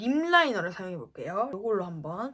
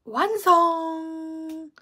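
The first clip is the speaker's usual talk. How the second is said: triumphant; 7 semitones higher, 8 dB louder, much slower than usual. Real, not acted. Announcing finished look.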